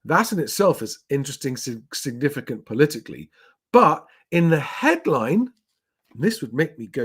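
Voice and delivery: ordinary talk, nothing marked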